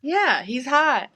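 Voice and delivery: drawn-out Midwest "hot"; Midwest accent. Shown as a demonstration. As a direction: say "hot" with a slow Midwest vowel. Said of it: "That's my Midwest accent".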